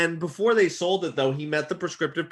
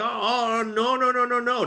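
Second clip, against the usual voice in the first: higher-pitched mock wife protest; higher imitated wife saying no to the neighbor's car; imitating wife; 9 semitones higher than usual. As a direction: play the objecting wife, pitched up. Wife objecting, voiced in story.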